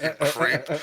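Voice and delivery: loud, slow, laughing brush-off; disgusted shout. Retold or imitated. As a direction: recoil and yell at the creep. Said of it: "it'd be like".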